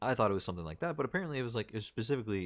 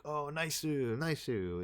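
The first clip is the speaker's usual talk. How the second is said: mock Asian accent; 9 semitones higher, slower than usual. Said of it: "the word nice said in an Asian accent".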